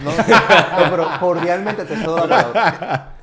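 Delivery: mock cordial, laughing. Mock cordial yielding floor.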